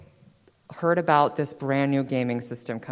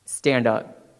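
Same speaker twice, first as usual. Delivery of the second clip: coach's order; 3 semitones lower, 5 dB louder than usual. Retold or imitated. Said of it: "he said".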